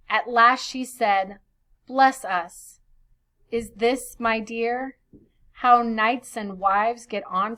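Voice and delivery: put-on measured reading of old verse; storyteller's verse voice. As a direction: read the poem aloud to the class. Reads verse translation aloud.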